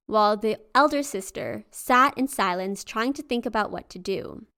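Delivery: steady storyteller voice; story narration. A narrator's reading. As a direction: read the folk tale aloud.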